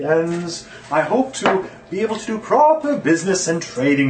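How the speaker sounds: lilting, melodic merchant speech; a lightly sung-through merchant voice; sing-song voice. Shown as a demonstration. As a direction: let the lines bob up and down like a tune. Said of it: "How's that for sing-song voice?".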